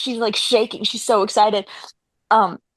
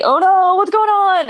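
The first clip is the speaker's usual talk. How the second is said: high, loud distressed cry; hammed-up worried wail; mock alarm; 8 semitones higher, 4 dB louder than usual. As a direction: act out sudden dismay. Acting character's alarm.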